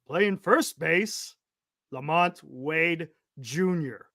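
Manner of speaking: lightly voiced ballpark announcer; stadium announcer voice. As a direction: call the lineup like a stadium PA. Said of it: "P A voice".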